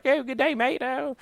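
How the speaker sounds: playful imitation of a high Australian accent; light-hearted imitation of an Australian accent; mock Australian accent. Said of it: "I wish I had a killer accent like that".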